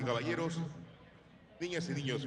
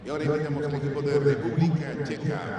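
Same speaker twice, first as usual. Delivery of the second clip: excited announcer; 7 dB louder, much faster than usual. Real, not acted. Crowd announcement, Czech team.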